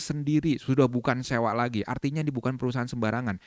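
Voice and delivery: mildly persuasive company presentation; edifying pitch. Shown as a demonstration. Trainer continues the edified profile for prospects, edifying pitch. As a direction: build up the company's standing for the audience. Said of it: "Habis itu lanjut lagi".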